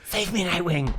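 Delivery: a softened, mock-tender plea; gentle whisper. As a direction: breathe it gently into his ear, half in jest. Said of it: "I whisper gently into his ear".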